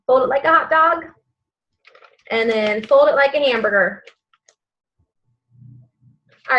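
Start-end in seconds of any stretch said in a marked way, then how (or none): 0.1-4.0 kindergarten teacher voice. Shown as a demonstration. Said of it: "Can you tell I was a kindergarten teacher?".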